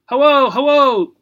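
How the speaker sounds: high, loud squawking parrot hello; bright bird squawk, cheerful. A narrator's reading. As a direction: parrot chirping hello at the gerbil. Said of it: "said Mister Smithers cheerfully".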